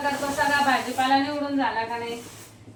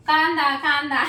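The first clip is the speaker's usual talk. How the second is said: laughing; 2 semitones higher than usual. Real, not acted. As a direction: call out the word then burst into laughter. Laughing at child with onion. (हसत हसत)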